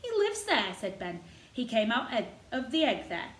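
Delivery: lightly voiced proud old gardener; a touch of Yorkshire, warming to the robin. Gardener boasting of the robin to Mary, lightly voiced old Yorkshireman.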